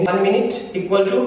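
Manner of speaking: "minute" said min-it, slowly; slow explanation. Shown as a demonstration. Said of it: "इसका pronunciation मिनट".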